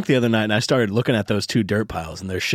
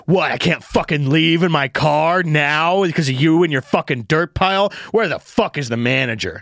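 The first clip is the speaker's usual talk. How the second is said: mock indignant complaint; drawn-out, mildly angry whine; Mark Maron, pissed off; 2 semitones higher than usual. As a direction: play an irritated comic demanding answers. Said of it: "I'm Mark Maron ... fucking pissed".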